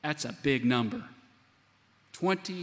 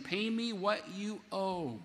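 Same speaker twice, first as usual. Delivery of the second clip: menacing demand; 4 semitones higher, slower than usual. Acted. Servant choking his debtor.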